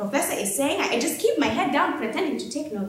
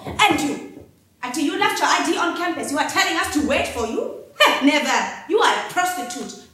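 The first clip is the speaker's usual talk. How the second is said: accusing officer; 3 semitones higher, 4 dB louder than usual. Acted. Officer accusing the detained student, loud contempt. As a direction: sneer the accusation.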